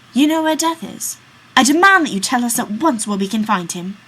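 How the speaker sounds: put-on young man demanding that the old man reveal Death. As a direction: insist on an answer at once. Friend demands answer from old man.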